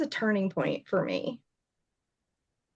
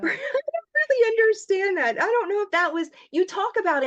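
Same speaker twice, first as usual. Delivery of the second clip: high, a little louder, with a teary laugh; half laugh, half cry; laughing through tears; 12 semitones higher, 4 dB louder than usual. Real, not acted. Guest overwhelmed by acceptance, teary laugh.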